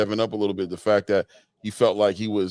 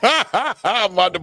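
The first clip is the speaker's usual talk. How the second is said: laughing; 9 semitones higher, 4 dB louder, much slower than usual. Real, not acted. Laughing at the clip.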